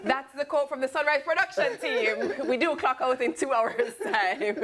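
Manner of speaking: talking through giggles; laughing. Real, not acted. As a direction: chuckle through the words. Laughing over the clock-out joke.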